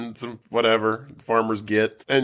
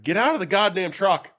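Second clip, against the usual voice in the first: urging the character; 8 semitones higher than usual. Retold or imitated. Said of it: "And you're like".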